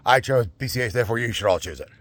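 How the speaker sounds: lightly voiced royal decree; a hint of a pompous king. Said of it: "I'm sounding like a king".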